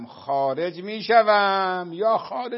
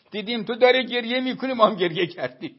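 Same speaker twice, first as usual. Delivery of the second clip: louder, amused, a laugh breaking through; laughing quote; 6 semitones higher, 6 dB louder, faster than usual. Retold or imitated. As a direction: hand over their reply half-laughing at it. Family's answer retold, amused. (با خنده و بلندتر)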